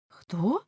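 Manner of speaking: "Хто" with a rising tune; echo question. A narrator's reading. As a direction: ask "Хто" back, pitch climbing. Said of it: "перепитала вона". (перепитування: «Хто» з підйомом тону)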